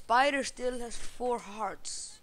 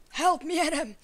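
loud panicked shout for help; yelling for help; 7 semitones higher, 7 dB louder than usual. Real, not acted. Gamer yelling to teammate Adam, panicked shout. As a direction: cry out to your teammate, high and loud.

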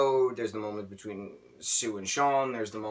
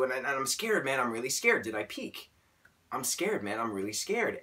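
a higher voice, anxious and confiding, about four semitones up; imitating Axel scared; 4 semitones higher than usual. Retelling Axel's library confession, in a higher scared voice. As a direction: play scared college-boy Axel opening up to a statue, slightly raised. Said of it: "and he's like".

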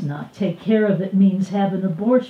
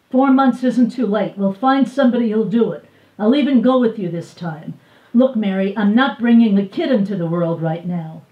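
insistent pressing; 3 semitones higher, 6 dB louder, faster than usual. Acted. Man pressing abortion.

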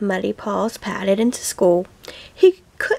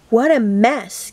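gasping. Acted. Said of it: "gasped the teacher".

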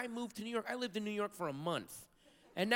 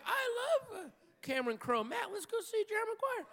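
much higher, excited self-parody; mock eager self; 13 semitones higher than usual. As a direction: play your past self gushing. Comic quoting himself, high voice.

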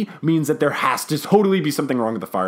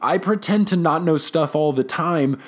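hesitant, higher-pitched cover story; mock flustered; 3 semitones higher than usual. Psychic professor excusing herself to colleague, mock flustered. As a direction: bluff through it as if caught out.

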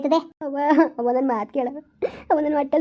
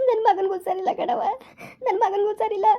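tearful; 4 semitones higher than usual. Acted. Mother breaks down on the phone.

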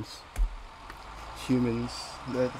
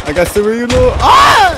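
loud, higher hype over a kill; excited callout; 4 semitones higher, 12 dB louder than usual. Real, not acted. Gamer shouting to squad about a kill, excited.

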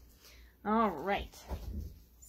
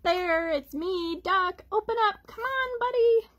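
higher, louder pleading duck; eager duck voice; 8 semitones higher, 4 dB louder than usual. Acted. Duck calling bear to open up, eager and high. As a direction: call through the door like a pesky duck.

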